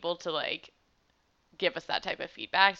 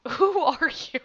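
mock indignant; 8 semitones higher, 4 dB louder than usual.

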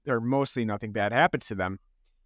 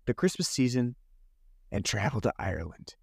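a light send-up of breezy holiday plans; mock ditzy travellers; 4 semitones lower than usual. Mocking the two women planning an Irish trip, lightly voiced airy tone. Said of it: "these two women who are like".

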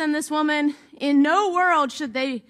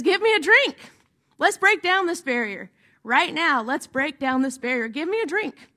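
demanding Jesus. Retold or imitated. Jesus asks the Samaritan woman for water, firm and demanding. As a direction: insist on it, breaking the barrier.

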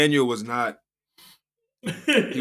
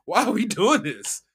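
put-on high, insistent kid begging; pleading kid voice; 10 semitones higher, 5 dB louder than usual. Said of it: "he's like".

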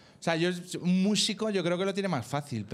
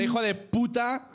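mock spiteful curse, pitch raised; acted resentment; 5 semitones higher than usual. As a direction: curse an ex with lightly played rancour. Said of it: "desde el rencor".

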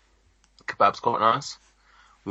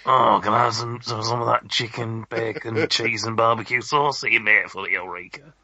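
Hunter voice. Pretend. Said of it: "I don't know if that's how he talks".

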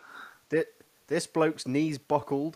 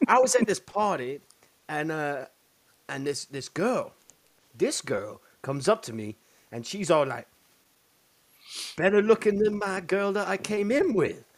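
loud, higher hillbilly voice; retelling the video to friends, loud hillbilly voice; hillbilly impression; 5 semitones higher, 4 dB louder than usual. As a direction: mimic the hillbilly telling his tale. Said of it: "And he's like".

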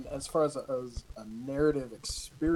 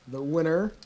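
suspenseful awards presenter; 3 semitones higher than usual. Acted. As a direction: hold the beat before the name. Reads out the award winner.

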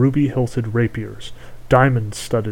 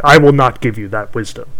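hag voice; 9 dB louder than usual. Acted. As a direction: bark a witch's refusal. Hag refuses the prince.

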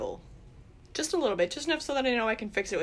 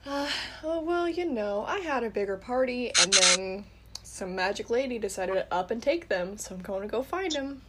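raised character voice; 3 semitones higher than usual. Acted. Player answers in character.

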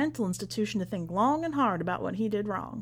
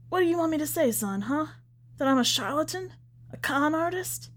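higher, challenging and defensive; indignant protest; 8 semitones higher than usual. A narrator's reading. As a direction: throw the accusations back at him. Preacher protests, challenging son.

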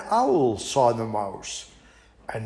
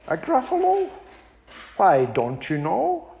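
high, polite little mouse turning down an invitation; small and prim, declining sweetly; a high, prim mouse fibbing to the owl; 3 semitones higher than usual. Acted. Mouse describes.

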